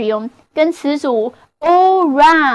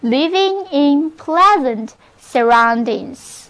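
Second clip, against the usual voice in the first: model phrase reading. Shown as a demonstration. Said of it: "那么就可以说成".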